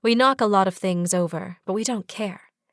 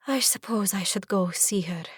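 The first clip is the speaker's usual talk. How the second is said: whispering; 3 dB quieter than usual. Acted. Intimate moment, whispered.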